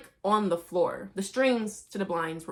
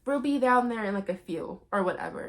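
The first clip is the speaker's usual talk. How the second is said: put-on girly daughter; 4 semitones higher, much faster than usual. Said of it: "and she's like".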